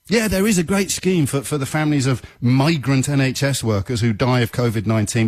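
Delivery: high-pitched, falsely upbeat announcement; mock official. Host plays Home Secretary telling a grieving family, mock official. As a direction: imitate a minister brushing off the bereaved. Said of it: "the Home Secretary tells your family".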